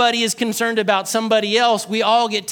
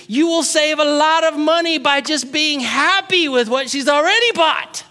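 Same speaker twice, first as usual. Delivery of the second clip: normal talking voice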